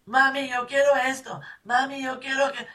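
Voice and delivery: put-on high, loud pleading kid voice; child nagging mother for something; whiny child. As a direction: beg like a spoiled little girl. A child begging in a shop.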